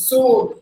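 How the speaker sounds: "sword" as sawd; silent letters. Shown as a demonstration. Teacher sums up the silent letters, correct demonstration. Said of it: "letter R silent".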